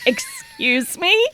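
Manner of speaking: very high, drawn-out disbelief; mock-shocked high pitch; incredulous. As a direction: squeak out a stretched, incredulous question. Incredulous reaction to syrup offer.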